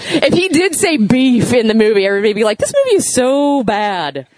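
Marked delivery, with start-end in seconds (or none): 2.6-4.3 mock moviegoer complaint. Imagined audience mocking the movie.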